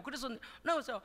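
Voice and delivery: usual speaking voice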